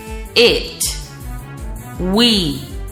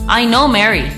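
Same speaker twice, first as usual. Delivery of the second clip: connected, quicker sentence; said quickly; 4 dB louder than usual. Shown as a demonstration. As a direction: run the words together.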